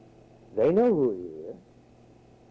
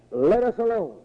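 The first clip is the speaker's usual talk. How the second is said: demons' raised cry, acted by a preacher; 6 semitones higher than usual. Demons plead with Jesus Christ, crying out in raised pitch. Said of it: "the unclean spirits are crying out".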